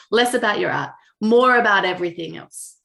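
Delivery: imitating a heavy Italian accent; lightly voiced Italian friend, Italian accent. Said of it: "heavy Italian accent".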